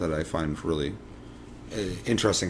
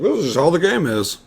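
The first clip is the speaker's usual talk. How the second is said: raised sarcastic quip; 9 semitones higher, 6 dB louder than usual. Retold or imitated. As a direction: say it with mock resignation. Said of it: "It was like".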